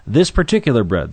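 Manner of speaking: "This" struck hard at the head of the phrase; emphatic this. Shown as a demonstration. Preacher to his congregation, stressing "This" emphatically. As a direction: lean on "This" and let "particular bread" fall away. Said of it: "the word "this" is, is emphatic".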